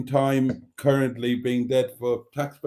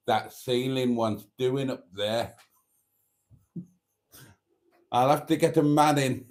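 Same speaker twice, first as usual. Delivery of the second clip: posh sexy voice. Retold or imitated. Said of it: "that posh, sexy voice that she does".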